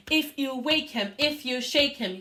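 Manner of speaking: loud strong chant; loud forte chant, building. Shown as a demonstration. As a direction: push it out strong. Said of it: "get louder and louder with every line".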